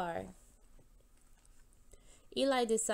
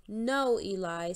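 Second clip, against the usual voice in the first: loud alarmed no; shriek; 4 dB louder, slower than usual. Acted. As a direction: stop him in alarm. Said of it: "shrieked Hank".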